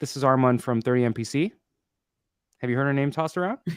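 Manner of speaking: every phrase ending with a rise, sounding unsure. Speaker demonstrates a common cold-call mistake, uncertain rising uptone intonation. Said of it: "uptone ... Sounds like you're asking a question ... very uncertain of yourself".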